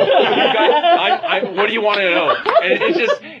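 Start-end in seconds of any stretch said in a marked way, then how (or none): 0.1-2.4 composure lost. Acted. Gorilla giving in to the heroes, comically flustered. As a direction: stumble over it, half laughing. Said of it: "He loses all composure".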